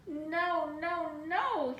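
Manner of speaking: high, loud dismayed squeaks; squeaking mouse. Acted. The mouse finding the statues back, squeaking loud and high. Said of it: "squeaked Mortimer".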